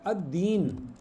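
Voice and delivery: अद्दीन slowly, with a doubled D; no L, hold the D in अद्दीन; silent lam. Shown as a demonstration. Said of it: "अद्दीन में भी pronounce नहीं हो रहा". (अद्दीन, लाम के बिना, द पर शद)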